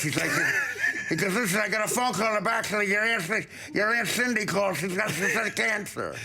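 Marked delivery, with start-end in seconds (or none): 1.3-6.1 lightly voiced stuttering man, raised pitch; a mild impression of a man with a speech impediment; imitating his speech. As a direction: mimic his way of talking, lightly. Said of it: "he talks like this".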